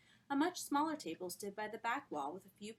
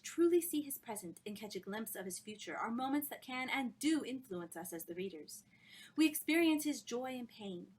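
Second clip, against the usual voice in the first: louder, higher, impassioned; rapturous lecture; 3 semitones higher, 3 dB louder than usual. Acted. Miss Dartmoor lecturing on Scrooge, impassioned. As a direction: preach the book's wonders.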